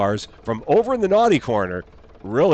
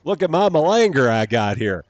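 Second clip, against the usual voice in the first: a quick, bad American accent, a bit louder; put-on American accent; 3 semitones higher, 6 dB louder than usual. A gamer shows off the machine in a bad American accent. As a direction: ham up an American accent, showing it off. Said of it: "don't know why I threw an accent on that".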